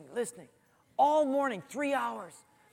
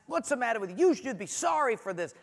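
slightly higher, mock-stern reprimand; retold scolding; 4 semitones higher than usual. Dad retelling scolding his crying son, mildly stern. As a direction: act out a parent's telling-off. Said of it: "scolded him and said".

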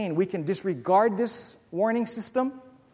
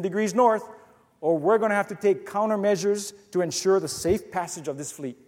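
fed-up captain. Acted. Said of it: "getting just fed up with this whole thing".

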